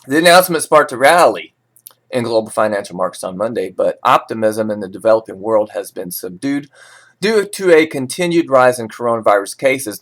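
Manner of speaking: steady newsreader delivery of market levels; measured financial news read. Acted. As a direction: read it like a forex bulletin. Reads forex news script.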